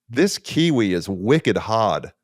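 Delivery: put-on slow, drawn-out Boston accent on wicked hard. Young daughter biting hard kiwi, in a slow Boston accent. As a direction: lightly imitate a Boston kid's accent. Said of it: "Boston accent".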